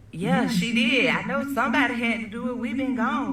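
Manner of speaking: high, fast, heated rant; going off. Retold or imitated. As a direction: fire it off like the rowdy sister. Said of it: "his sister is just going off".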